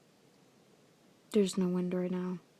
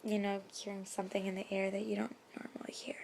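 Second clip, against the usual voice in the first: whisper; 5 dB quieter than usual. Real, not acted. Whispering at night.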